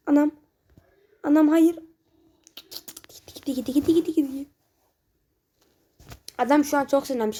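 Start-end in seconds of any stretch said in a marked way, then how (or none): 2.6-4.5 breathless whisper; whispered tension. Real, not acted. Gamer watching the shot roll in, tense whisper. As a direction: hush it out as the ball goes.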